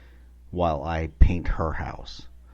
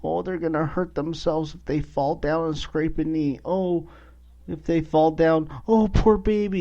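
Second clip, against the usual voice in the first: mock fretting mom, pitched way up; hammed-up high-pitched worry; scared and skittish; 10 semitones higher than usual. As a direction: imitate an overanxious grandmother fussing in a high voice. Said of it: "her getting all scared and skittish".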